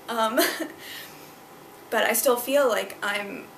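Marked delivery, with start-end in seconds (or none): 0.4-1.8 soft emotional laugh. Real, not acted. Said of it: "I'm sorry that I'm getting emotional".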